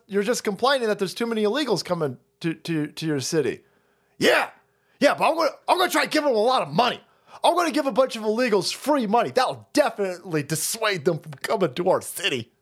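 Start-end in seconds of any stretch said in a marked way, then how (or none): 4.2-9.3 much higher fast mock reply; chirpy fake reasoning; mock official. Official answering the critic, in a chirpy higher voice.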